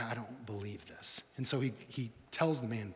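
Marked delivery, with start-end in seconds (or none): 0.0-1.3 stunned disbelief. Retold or imitated. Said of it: "he was like".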